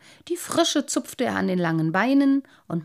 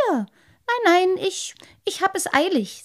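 much higher, hurried nervous stammer; hasty; 11 semitones higher, 4 dB louder than usual. Acted. Boy hurrying away from the lamprey, nervous and hasty. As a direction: stammer and get away fast. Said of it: "sagte der kleine Wassermann rasch".

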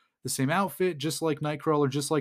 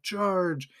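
mild mock yell, pitched up; half-hearted, high rallying call; yelled battle cry; 5 semitones higher than usual. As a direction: imitate a cavalry charge without real volume. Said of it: "He's yelling".

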